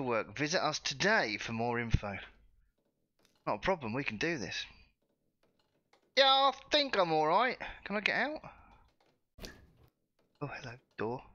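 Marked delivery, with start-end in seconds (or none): 6.2-8.4 mock-chirpy brush-off. Real, not acted. Mocking reply to job centre.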